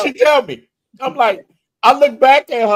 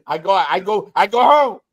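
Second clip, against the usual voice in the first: put-on halting broken English, light Dominican accent; a hint of mock Dominican accent. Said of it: "I start talking like them".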